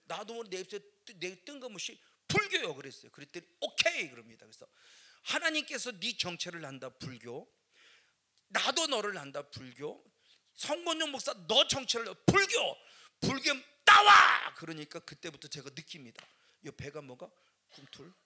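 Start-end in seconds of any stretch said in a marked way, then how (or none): 2.3-2.8 sudden high loud word; blurted answer. Retold or imitated. 3.6-4.1 loud, high affirmation; confident okay. Retold or imitated. Minister confirms. 5.2-14.5 building from firm to a huge slow shout; rising exorcism command. Retold or imitated. Deliverance command to spirit.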